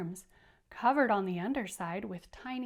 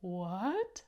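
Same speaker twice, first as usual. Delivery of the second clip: surprised what; 3 semitones lower than usual. Shown as a demonstration. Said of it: "look how surprised the creatures".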